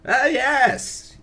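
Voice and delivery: high, loud hammed-up sage exclamation; old sage voice. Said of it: "not the old, old sage voice".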